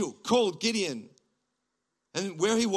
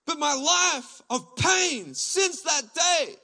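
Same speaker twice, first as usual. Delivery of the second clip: anguished shout; 12 semitones higher, 8 dB louder than usual. Retold or imitated. Congregant's anguished objection voiced.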